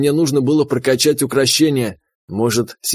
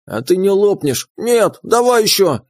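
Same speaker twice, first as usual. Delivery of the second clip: greedy creature voice; 6 semitones higher than usual. Acted. Pet answers greedily.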